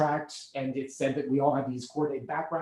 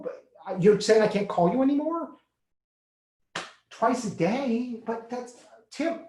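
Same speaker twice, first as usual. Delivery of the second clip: much higher and louder, pleading; begging his sponsor, pitched up and louder in distress; desperate pleading; 5 semitones higher, 4 dB louder than usual. Acted. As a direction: beg him not to hand you off. Begging his sponsor not to leave.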